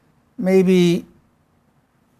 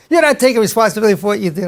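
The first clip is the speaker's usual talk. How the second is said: imitated rapid, higher-pitched scolding; a little heated; 5 semitones higher, faster than usual. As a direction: fire off a mock reproach. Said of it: "got a little heated".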